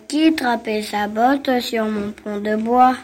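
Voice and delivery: troll grave et menaçant; voix de troll. Acted. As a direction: grogne comme un troll sous le pont. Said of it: "dit le troll". (voix de troll grave)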